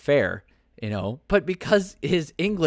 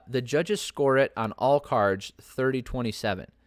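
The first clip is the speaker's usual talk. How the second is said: announcer's changed scorecard wording; Bruce Buffer. Retold or imitated. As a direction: read the scores like a ring announcer. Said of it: "he changed the way he was saying".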